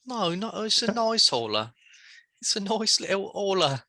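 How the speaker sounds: high teasing put-on voice; mock high voice. High sweet voice on holler.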